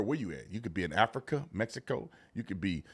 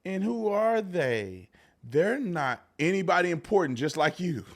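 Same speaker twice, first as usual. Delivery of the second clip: imitating talking to babies. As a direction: talk as if to small children, mocking. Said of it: "talking like she's talking to little babies".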